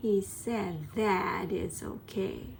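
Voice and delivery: "that" reduced, jaw barely moving; reduced vowels. Shown as a demonstration. Teacher showing reduced vowels in a sentence. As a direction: say it with a lazy jaw. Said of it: "顎を動かさなくても喋れる".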